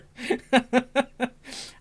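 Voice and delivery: high-pitched giggling fit; laughing. Real, not acted. Cracking up at his slip.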